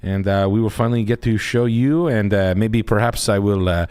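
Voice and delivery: lightly put-on French accent, mock formal; a hint of a sarcastic French guy; French guy bit. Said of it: "me of your French guy bit".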